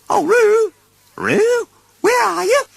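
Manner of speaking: high, loud worried calling. Acted. Kanga calls for missing Roo, loud and high. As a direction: call out for a lost child. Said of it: "she called in all directions".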